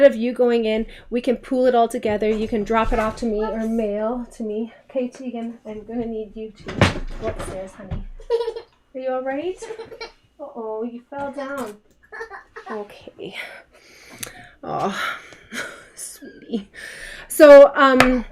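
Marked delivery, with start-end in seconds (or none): 4.9-8.0 soft motherly voice. Real, not acted. Mom speaks softly to daughter. 8.9-16.7 soothing. Real, not acted. Daughter fell down on stream.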